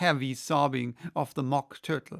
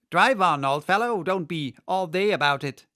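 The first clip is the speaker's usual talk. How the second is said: loud, higher, rough urging; impatient griffin; 4 semitones higher, 8 dB louder than usual. Acted. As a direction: hurry the old fellow along. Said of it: "the griffin said to the Mock Turtle".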